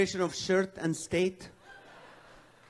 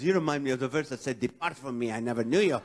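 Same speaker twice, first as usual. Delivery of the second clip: lower, faster mock-stern church lady; quoting a church lady; 5 semitones lower, faster than usual. Church lady rebuking a single man, mock stern. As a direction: deliver her verse like a holier-than-thou rebuke. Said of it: "she goes".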